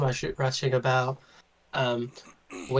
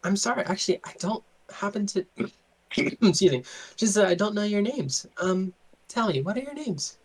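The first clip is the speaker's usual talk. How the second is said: a hint of a coy lady, higher; playful noble host asking names, lightly higher; lightly voiced flirty noblewoman; 7 semitones higher than usual.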